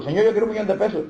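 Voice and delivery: a hammed-up greedy yell to heaven, quick. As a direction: outshout the man next to you, half in jest. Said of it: "el otro gritaba más duro".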